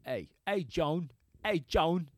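lightly imitated British actor; a rough stab at a British accent; Michael Caine. Comic hunting for the right British voice, lightly imitated. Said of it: "That's Michael Caine".

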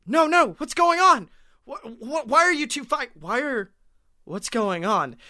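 high, fast confused yelps; mock panic. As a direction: act baffled and rattled. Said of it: "and we're like".

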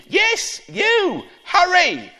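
very high, pressing granny voice; urgent Granny. Acted. Granny pushing Ben to answer the door, very high and urgent. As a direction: hurry him along as granny.

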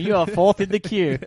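loud, high call center agent; indian call center. Pretend. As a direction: recite it like a hold recording. Call center hold message bit.

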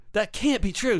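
that can't be true, pitched high in protest. Acted. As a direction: rise up in disbelief.

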